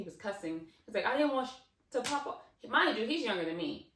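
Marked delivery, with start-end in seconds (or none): 1.1-2.4 high, loud, worked-up protest; agitated and insistent; animated cousin. Retold or imitated. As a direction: imitate a spooked boy explaining himself. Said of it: "he's real animated. So this is really him".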